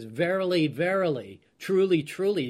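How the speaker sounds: VERILY and TRULY each said twice with mild emphasis; emphatic repetition. Retold or imitated. Teacher quotes Jesus repeating himself to get an emphasis, mildly emphatic. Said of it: "Jesus is even more emphatic".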